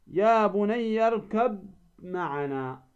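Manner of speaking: "اركب معنا" with the ب sounded separately before معنا; unmerged ba. Shown as a demonstration. Teacher reciting the verse before correcting it, unmerged ب in اركب. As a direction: keep a clear b at the end of اركب. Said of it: "لا، تدغم الباء في الميم".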